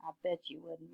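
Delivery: quiet, sceptical muttering; mumbled. A narrator's reading. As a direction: mumble it softly to yourself. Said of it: "mumbled Ruby".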